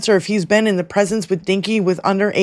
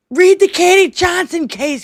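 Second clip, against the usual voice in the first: mock furious shriek, pitched very high; 9 semitones higher, 4 dB louder than usual. Recounting a woman's comments, the speaker is retelling a scream at the phone. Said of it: "I'm like screaming at my phone".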